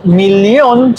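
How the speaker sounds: "millón" said the German way, as mil-lion; German "millón" with a clear L before the i; German pronunciation. Shown as a demonstration. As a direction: give "millón" its German L sound. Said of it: "nada más es la pronunciación".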